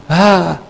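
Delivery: "ah" imitado, más agudo; grito imitado. Retold or imitated. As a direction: imita un grito de espanto, contenido. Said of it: "y era el griterío". (grito de espanto fingido)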